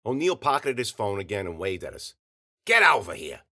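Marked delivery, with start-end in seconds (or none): 2.6-3.4 loud, curt summons; calling out. A narrator's reading. O'Neill waves the fighters over, calling out loudly. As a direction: call him over like an irritated boss.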